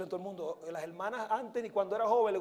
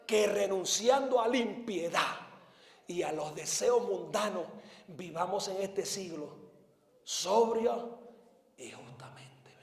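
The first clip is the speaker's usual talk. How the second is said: versículo en voz baja; slower than usual. Real, not acted. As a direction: drop from the pulpit shout to hushed recitation. Repite el versículo ya sin gritar. (recitado suave que se apaga en susurro)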